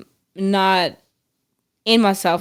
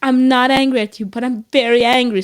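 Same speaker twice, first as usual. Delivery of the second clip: mock losing it while apologizing, building louder and higher; re-enacted apology boiling over into mild anger; retold exasperated apology; 3 semitones higher, 4 dB louder than usual. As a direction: insist you're not angry, with rising exasperation. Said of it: "I'm losing it. And I'm saying".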